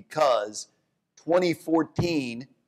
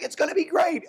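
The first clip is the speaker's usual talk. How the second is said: much higher breezy mock optimism; mock Fed. Mocking the Fed's rosy forecast, high pitched. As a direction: parody the Fed's cheerfulness. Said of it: "the Fed is like".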